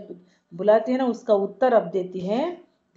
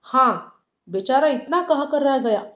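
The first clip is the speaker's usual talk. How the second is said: bitter retort; 4 semitones higher than usual. Acted. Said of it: "Sujan देखे क्या उत्तर देता है".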